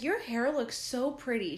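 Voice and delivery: lightly hammed-up sweetness; sweet compliment. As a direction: imitate a friendly girl admiring someone. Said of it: "she was just so sweet".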